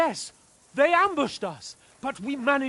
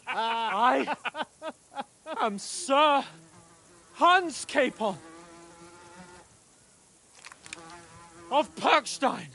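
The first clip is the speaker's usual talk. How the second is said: entitled customer; slower than usual. Acted. Pompous claim of noble rank.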